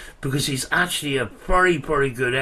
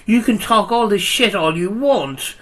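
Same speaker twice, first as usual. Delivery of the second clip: loud heated rant, getting louder; tearing into him, voice raised; wild unhinged ranting; 3 semitones higher, 4 dB louder than usual. Real, not acted. Heated argument with rival youtuber.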